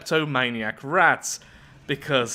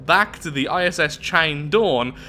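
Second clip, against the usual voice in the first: theatrical storybook read-out; story narration. A narrator's reading. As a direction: narrate it with big, swooping emphasis. Reads the event story aloud.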